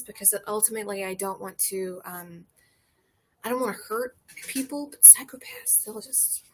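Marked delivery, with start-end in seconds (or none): 4.9-6.4 hushed warning. Real, not acted. Dramatic hushed aside.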